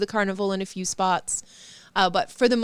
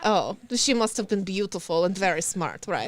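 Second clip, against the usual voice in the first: put-on Russian accent. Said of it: "The Russian accent is".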